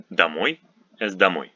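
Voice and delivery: домой said "da-MOY"; weak "a" for the first O in домой; unstressed O weakened. Shown as a demonstration. Teacher showing learners the vowel rule, домой with weak "a". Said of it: "O unstressed is pronounced as weak".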